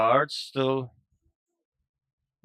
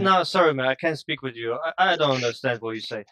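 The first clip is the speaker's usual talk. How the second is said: mock flustered reply; 6 dB louder than usual. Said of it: "I say".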